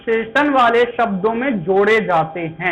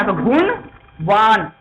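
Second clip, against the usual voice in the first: slow reveal; 2 semitones lower, much slower than usual. Shown as a demonstration. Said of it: "वान की sound में आया".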